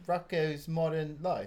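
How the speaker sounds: slow Australian cartoon-title accent. Shown as a demonstration. Co-host coaching friends by example, slow Australian accent. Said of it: "when I try and do the Australian".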